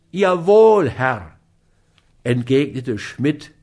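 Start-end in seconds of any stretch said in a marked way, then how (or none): 0.1-1.3 higher, louder mocking yes sir; a lightly voiced scornful yes sir; sneering. A narrator's reading. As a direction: sneer the obedience back at him. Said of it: "höhnisch die Zähne wies".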